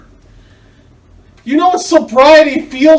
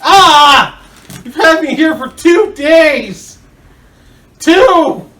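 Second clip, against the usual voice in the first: angry; 3 semitones higher, 6 dB louder, slower than usual. Acted. Complains while peeling tape.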